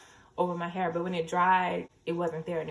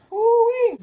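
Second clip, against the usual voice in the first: loud high woo-wee of relief; whooping woo-wee; 14 dB louder than usual. Real, not acted. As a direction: holler it with delight. Itchy scalp relief.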